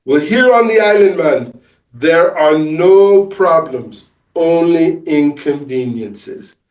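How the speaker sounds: put-on easygoing island wisdom in an amateur Caribbean accent; slow mock Caribbean accent delivering calm advice; bad Caribbean accent. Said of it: "obviously my accent's terrible".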